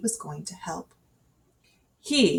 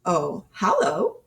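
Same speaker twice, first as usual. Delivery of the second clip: different voice; slower than usual. Acted. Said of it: "in a quite a different voice".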